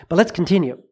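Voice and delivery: whispered aside to the congregation. Real, not acted. Preacher nudging his listeners forward, whispered. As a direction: breathe it out, moving on.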